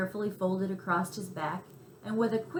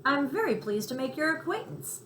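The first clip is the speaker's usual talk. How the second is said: smooth, silky cat purring the greeting; 6 semitones higher than usual. A narrator's reading. Cat greets a new friend in a silky voice. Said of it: "said Harry Cat in a silky voice".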